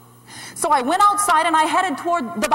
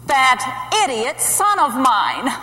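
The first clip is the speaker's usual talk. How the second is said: exasperated; 3 dB louder, slower than usual. Acted. Mother fed up with son.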